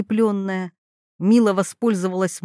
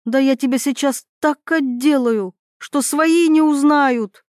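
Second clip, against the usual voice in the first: angry threat; 4 semitones higher than usual. Acted. Threatens a beating.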